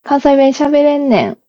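natural Kansai intonation, falling off at the end; Kansai dialect. Shown as a demonstration. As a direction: show a native Kansai line. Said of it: "何が自然かな".

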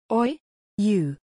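put-on a street boy's shout; a sharp call from a caught urchin. A narrator's reading. Urchin yelling at the man grabbing his neck, shouting. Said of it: "the boy shouted".

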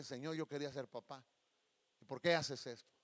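low, subdued lament; sad prayer. Retold or imitated. Grieving husband questioning God after the loss, subdued sadness. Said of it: "muy triste".

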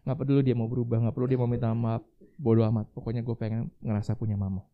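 loud, fed-up plea to God; exhausted exasperation. Retold or imitated. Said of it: "Sampai saya capek dan bilang sama Tuhan".

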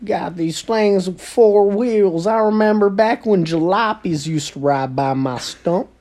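hammed-up old man tree reminiscing. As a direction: reminisce like an ancient grandpa. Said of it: "see their grandparent trees".

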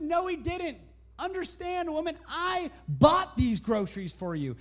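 high mocking retort; lightly voiced mocking neighbor; scoffing neighbor. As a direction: sneer at her faith. Neighbor argues back.

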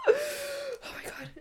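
shocked. Real, not acted. Reacting to the boss's words.

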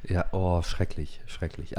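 weak whispered man flu moan. Pretend. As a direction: moan it like a dying patient. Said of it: "es ist Männerschnupfen".

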